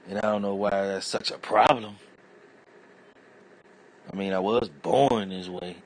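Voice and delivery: high, casual shrug of a reply; loud, easygoing comeback to an insult; mock calm reply. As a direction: play it breezy and unbothered, voice up high. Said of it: "I'm like".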